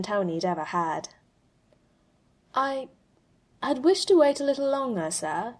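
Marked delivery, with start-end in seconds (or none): 2.5-5.6 a hint of a gentle, hesitant AI; lightly voiced machine, softly spoken. A hint of the AI confessing softly to Tony. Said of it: "his A I said softly".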